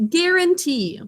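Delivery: "guarantee" said slowly, each syllable clear; teacher demonstrating a spelling word, slow and clear; slow model word. Shown as a demonstration. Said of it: "Would you all say guarantee?".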